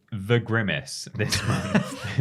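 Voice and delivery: reading through a laugh. Real, not acted. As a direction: giggle while reading aloud.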